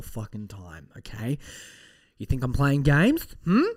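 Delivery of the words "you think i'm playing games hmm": loud, pushy mock threat; loud challenge. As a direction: call them out loudly. Mock threat to listeners, louder.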